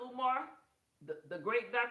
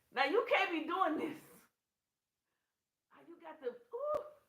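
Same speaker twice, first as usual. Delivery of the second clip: high voice, laughter breaking into words; 6 semitones higher than usual. Reacting to a crude story about a woman: laughing while talking. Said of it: "I was trying not to laugh".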